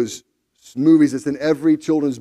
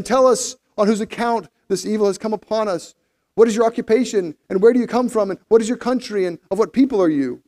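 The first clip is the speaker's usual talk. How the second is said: higher-pitched read-aloud interrogation; urgent questioning; 5 semitones higher, 3 dB louder than usual. Acted. Sailors demand answers from Jonah, urgent questioning. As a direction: press him with question after question.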